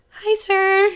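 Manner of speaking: high, giggly hi to the driver; bright laughing hello; laughing greeting. Retold or imitated. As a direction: say it laughing at the absurdity. Greeting Uber driver after leaving.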